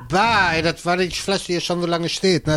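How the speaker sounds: slurred and mumbled. Real, not acted. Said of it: "was lallst du denn so".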